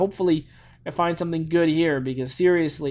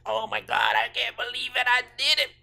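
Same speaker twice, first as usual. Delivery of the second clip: mock delight; 7 semitones higher, 3 dB quieter than usual. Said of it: "I'd be like".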